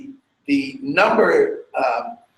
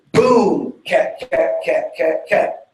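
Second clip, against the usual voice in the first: vocalography cue; slower than usual. Shown as a demonstration. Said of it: "There are five cats".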